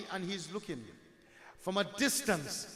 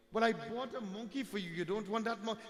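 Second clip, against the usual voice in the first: slightly higher, lightly acted puzzled father; puzzled fatherly questioning; 4 semitones higher, 4 dB quieter than usual. Father asks why child refuses the monkey, mildly puzzled questioning. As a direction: question the child with mild disbelief, not scolding.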